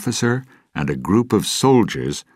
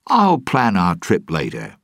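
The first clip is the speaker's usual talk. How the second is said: brisk, raised captain's order; 4 semitones higher, 4 dB louder than usual. Acted. Jack to Gibbs, a mild order. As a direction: cut off the questions and command. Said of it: "Jack ordered".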